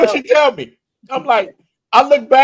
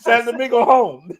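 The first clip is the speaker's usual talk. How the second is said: broken English, mock Dominican accent; higher Dominican-accented English; 4 semitones higher than usual. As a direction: imitate a Dominican naming home. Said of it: "I start talking like them".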